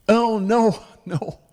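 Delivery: high, loud, laughing no. Retold or imitated. Father on the phone laughs off the worry about his daughter. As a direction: brush off the worry with a chuckle.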